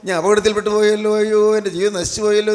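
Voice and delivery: mildly hammed-up wail of a penitent; preacher's imitation of a remorseful plea; acted lamenting cry. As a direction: cry out to the Lord in mock lament, building slightly. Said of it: "എന്നുള്ള നിലവിളി നമുക്കുണ്ടോ?".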